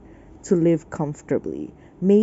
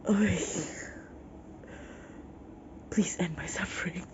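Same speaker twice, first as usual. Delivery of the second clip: soft, hushed plea to be spared; weary mock plea; 7 dB quieter than usual. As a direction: sigh it out, fed up. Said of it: "And I'm here like".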